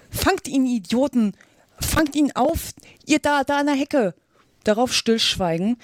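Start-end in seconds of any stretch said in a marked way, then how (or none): 0.1-4.1 high-pitched urgent orders; commanding rabbit. A narrator's reading. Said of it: "Dann die Stimme des Kaninchens allein". (hoch gerufene Befehle des Kaninchens)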